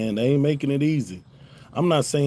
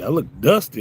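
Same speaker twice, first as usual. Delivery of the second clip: mock offended; 3 dB louder, faster than usual. Real, not acted. Husband repeating his wife's jab to the chat, mock offended. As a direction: throw the jab back in disbelief.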